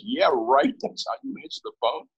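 high-pitched mocking retort; sarcastic interjection. Caller interrupts the professor's phone greeting, sarcastic. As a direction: cut in with a derisive, high jab.

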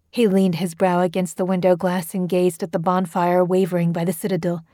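plain reading voice

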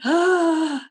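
startled gasp. Retold or imitated. Brenda bumps into Vivien Leigh at the door, startled. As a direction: catch your breath in shock.

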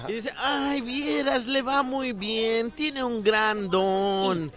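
slow, drawn-out lady voice; woman boasting about her daughter; chatty lady. Acted. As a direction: gossip sweetly in the park. Joke: ladies chatting, slow.

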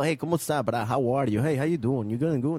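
lilting demo of a Brazilian accent. Shown as a demonstration. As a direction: greet casually with a Brazilian Portuguese lilt. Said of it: "they follow like this".

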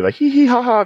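high crazy clown cackle; loud slapstick yelps. Retold or imitated. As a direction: hee hee ha ha like a manic clown. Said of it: "kind of crazy stuff".

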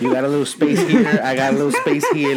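laughing through the words. Real, not acted. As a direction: chuckle while saying it. Joking about joining bodies, laughing.

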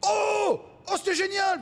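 very high mock rapture; gushing spectator. Spectator praises comic after a silent show, high mock gushing. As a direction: squeal praise like an overjoyed fan. Imitates gushing audience member.

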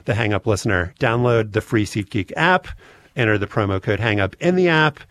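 brisk upbeat sponsor read. Acted. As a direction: sell it like a podcast ad. Host reads sponsor ad.

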